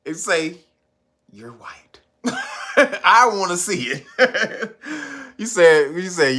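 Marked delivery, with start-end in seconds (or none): 1.3-2.0 low, much softer mock verdict; mock flat pronouncement. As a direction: drop way down and murmur it. Mock voice of TV hosts.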